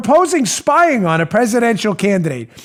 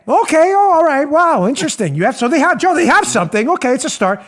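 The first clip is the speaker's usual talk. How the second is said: mock amazement; 6 semitones higher than usual. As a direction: voice jumps up on oh, hammed-up wonder. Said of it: "the third question would be".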